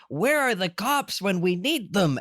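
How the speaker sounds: high, theatrical outburst; Dr. Amp. Acted. Podcaster imitating the host's sudden aside, hammed-up rant. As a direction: break off the list for a mock-indignant appeal. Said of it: "And then he pauses".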